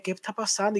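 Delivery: soft, confused question; hushed retold bewilderment; puzzled movie-theater aside. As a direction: ask a friend under your breath. Quotes puzzled aside during a movie.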